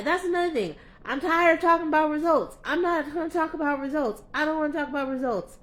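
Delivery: high, loud exasperated outburst; fed-up rant. Real, not acted. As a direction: let the frustration burst out. Venting frustration about results talk.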